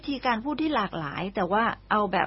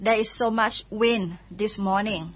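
there is so much wind this morning said slowly and clearly; slow model sentence; much slower than usual. Shown as a demonstration. Teacher gives listeners the wind example, slow and clear. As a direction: lay it out slowly for learners. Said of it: "ถ้าเกิดมีลมก็".

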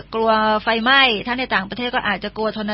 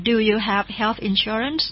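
slow, softer English question; slow teacher question; slow model question; 5 dB quieter, much slower than usual. Shown as a demonstration. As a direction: ask it slowly for learners. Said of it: "เขาก็ถาม".

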